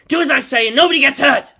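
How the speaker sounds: loud, high threat; robber's threat. A narrator's reading. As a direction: bark the order over the room.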